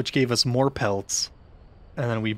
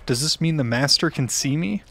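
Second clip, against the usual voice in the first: birthday clown voice. Acted. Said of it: "Does this sound like four-year-old's".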